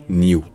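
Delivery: "New" dit niou, avec y; forme britannique. Shown as a demonstration. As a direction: glisser un y dans "New". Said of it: "c'est surtout un truc, euh, britannique". (« New » à la britannique, niou)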